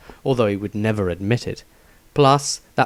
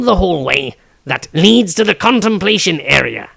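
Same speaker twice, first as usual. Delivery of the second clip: loud, higher, quick thief voice; halfling thief voice; 5 semitones higher, 5 dB louder than usual. Acted. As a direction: press the group eagerly. Tobias voiced in story.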